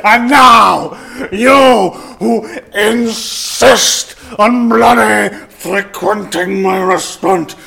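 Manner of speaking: hammed-up ranting Italian accent, words drawn out; slow, loud theatrical Italian-accent outburst; breakdown in Italian accent. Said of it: "I am in the middle of having a bloody breakdown".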